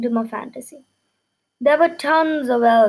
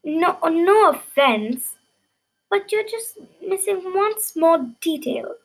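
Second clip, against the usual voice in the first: nervous reply; 5 semitones higher than usual. Acted. Narrator answering the king.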